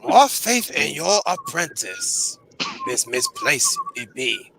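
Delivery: high slow croaky little master; Yoda voice. Pretend. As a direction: squeeze up into Yoda's voice. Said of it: "Master Yoda".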